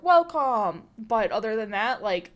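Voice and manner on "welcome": loud bright greeting call; cheery welcome. Shown as a demonstration. Demonstrating an enthusiastic welcome, loud. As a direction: call out welcome to arriving guests. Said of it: "inviting you".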